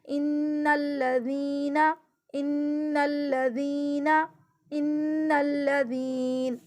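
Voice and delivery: ان الذین recited slowly with doubled nun and lam; slow Quranic reading. Shown as a demonstration. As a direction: lean on the doubled letters in ان الذین. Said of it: "نون زبر نا". (ان الذین آہستہ، تشدید کے ساتھ)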